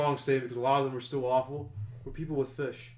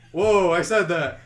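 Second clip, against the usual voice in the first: retold surprise; 2 semitones higher, 8 dB louder, slower than usual. Shocked at own words.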